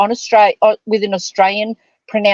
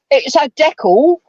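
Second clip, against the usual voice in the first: mock English; 2 semitones higher than usual. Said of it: "could you imagine, Neil?".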